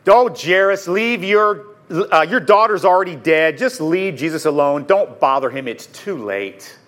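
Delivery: mildly disdainful brush-off, sinking at the end; a touch of put-on weary scorn; passive-aggressive disdain. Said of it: "sort of a passive-aggressive disdain".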